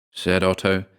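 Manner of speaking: ordinary delivery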